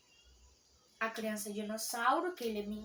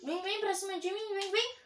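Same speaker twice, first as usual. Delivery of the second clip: taunting; 8 semitones higher, 3 dB louder than usual. Real, not acted. Taunting enemy.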